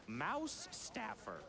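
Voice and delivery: "Mouse Staffer" said slowly and carefully; "Mouse Staffer", both words drawn out. Shown as a demonstration. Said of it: "Good luck to the runners".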